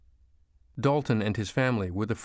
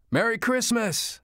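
high, drawn-out holiday shout; joyful shout; 13 semitones higher, slower than usual. A narrator's reading. Mother greeting the family from her front door, shouting. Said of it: "swung open the front door and shouted".

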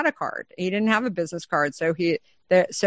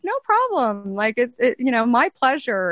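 mock breezy reply; 5 semitones higher than usual. Her breezy reply in story.

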